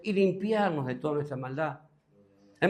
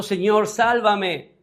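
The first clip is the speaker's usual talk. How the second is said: slow, louder plea of a sinking man; cry for help; 3 semitones higher, 5 dB louder, much slower than usual. Acted. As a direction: call out to be saved, stretching each word. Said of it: "Dio voces diciendo".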